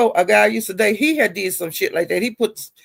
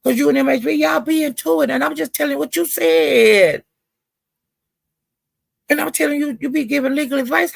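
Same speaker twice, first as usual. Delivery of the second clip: retold heated callout; 6 semitones higher than usual. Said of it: "And I was saying".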